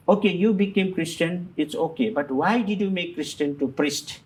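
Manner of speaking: mildly indignant sister taking someone to task; scolding sister. Retold or imitated. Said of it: "she started to scold me".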